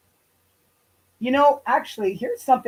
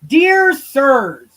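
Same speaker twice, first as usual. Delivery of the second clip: mock formal read; 4 semitones higher, 5 dB louder than usual. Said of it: "I don't know why that says Dear Sirs".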